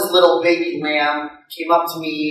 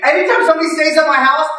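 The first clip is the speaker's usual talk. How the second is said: high, excited teasing; hammed-up high-pitched mockery; gleeful prankster chef; 11 semitones higher than usual. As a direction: play the chef crowing over his prank. Chef gloats after revealing prank.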